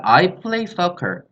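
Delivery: I play soccer read out very slowly, word by word; slow model sentence. Shown as a demonstration. Teacher reading an example to students, very slow. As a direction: spell it out slowly for the class. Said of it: "여기서 I play not이 아니라".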